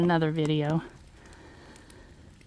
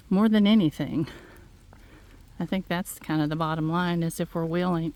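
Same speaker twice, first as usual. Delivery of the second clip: out of breath. Real, not acted. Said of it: "you can hear how out of breath I am".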